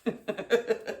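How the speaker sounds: high, slow outraged squeal; hammed-up high squeal of outrage; mock outrage. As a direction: drag out her indignant complaint. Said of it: "She said".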